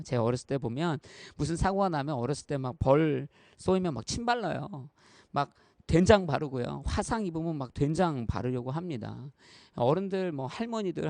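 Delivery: ordinary talk, nothing marked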